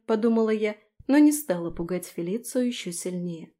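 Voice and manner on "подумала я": plain reading voice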